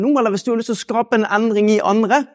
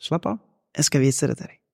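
mild reassuring brain; 4 semitones lower, 5 dB quieter than usual. Retold or imitated. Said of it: "Og så sier jeg igjen akkurat det samme".

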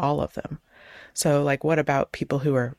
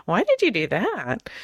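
judgmental why, stress on did; accusatory; 2 semitones higher than usual. Shown as a demonstration. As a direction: make "Why did you do that?" sound like blame, leaning on "did". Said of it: "it sounds like".

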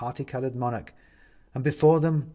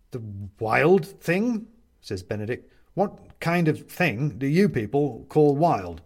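wary captive; 4 dB louder, slower than usual. Acted. Benedict character voice.

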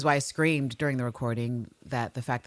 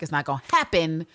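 ordinary talk, nothing marked

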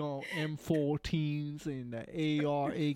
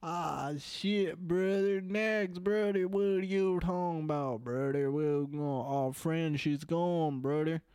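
mock-distressed Southern good old boy; Southern accent; 2 semitones higher than usual.

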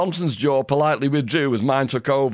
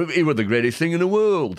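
imitated Yorkshire accent, slightly higher; a musician; 4 semitones higher than usual. Quoting a musician from the flexi disc, imitated Yorkshire accent. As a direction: round out the tones like a Yorkshireman. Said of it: "I think he says".

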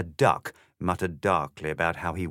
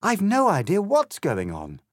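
high, loud appeal for help; Alice's desperate plea; crying out; 11 semitones higher, 5 dB louder than usual. A narrator's reading. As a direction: beg urgently, pitched well up. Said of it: "cried Alice".

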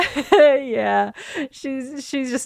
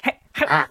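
higher-pitched mock snapping noises; menacing teeth snaps; 4 semitones higher than usual. Player imitates Astra warning the dwarves, menacing teeth snaps. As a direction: snap at them like a rabid dog. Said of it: "make some menacing teeth snaps at him, like".

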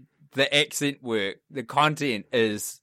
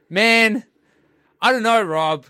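exasperated; 5 semitones higher, 5 dB louder than usual. Real, not acted. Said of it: "exasperated reaction to Rob".

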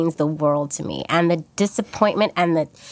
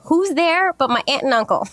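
higher, laughing disbelief; laughing exclaim; 7 semitones higher than usual. Real, not acted. Telling the host the worst moment, laughing higher. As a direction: blurt it out through a laugh. Punchline of embarrassing story.

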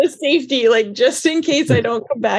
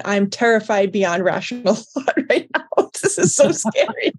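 laughing fear. Retold or imitated. Retold fear, laughing on the ride.

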